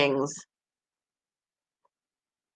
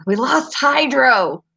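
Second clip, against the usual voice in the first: slow retelling; 4 semitones higher, slower than usual. Retold or imitated. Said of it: "I said that once here".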